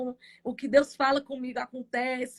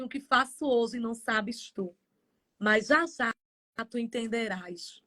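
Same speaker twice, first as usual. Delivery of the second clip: voice of God; 3 semitones lower than usual. Retold or imitated. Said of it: "o Senhor disse assim".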